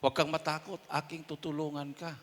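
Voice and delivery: the verse again, soft and inward; quiet repeat. Shown as a demonstration. Preacher repeating the promise softly to himself. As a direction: let "Huwag kang matakot" sink in gently. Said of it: "repeats the verse".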